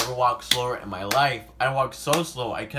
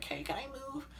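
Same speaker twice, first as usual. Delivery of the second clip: timid request; 12 dB quieter than usual. Retold or imitated. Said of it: "like, the teacher".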